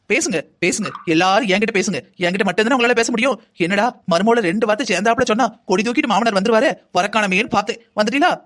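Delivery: bitter, sarcastic outburst; angry. Acted. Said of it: "அத்தை தான் கோவமா இருக்காங்கன்னு தெரியுதுல்ல". (கோபமும் கிண்டலும் கலந்த குரல்)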